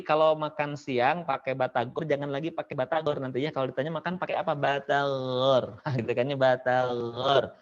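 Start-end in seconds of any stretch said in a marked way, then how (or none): 4.6-5.8 "Batagor" with drawn-out throaty gh; soft gha practice. Shown as a demonstration. Teacher jokes about lunch practice, soft-g "Batagor". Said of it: "dibaca dengan lembut dan tebal". 6.3-7.5 "Batagor" with drawn-out throaty gh; soft gha practice. Shown as a demonstration. Teacher jokes about lunch practice, soft-g "Batagor". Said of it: "dibaca dengan lembut dan tebal".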